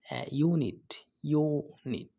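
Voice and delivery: "ইউনিট" with the opening "ইউ" drawn out; stressed initial "ইউ". Shown as a demonstration. Teacher showing why the article is "এ", "ইউনিট" with a long "ইউ". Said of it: "ইউ উচ্চারণ হয়েছে".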